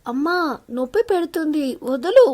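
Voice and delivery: loud playful yelp of pain; yelping cry. Acted. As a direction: squeal as your ear gets twisted. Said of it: "అరుస్తూ".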